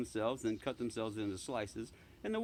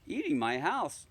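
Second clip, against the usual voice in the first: incredulous repeat; 5 semitones higher, 4 dB louder than usual. Acted. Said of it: "I repeated".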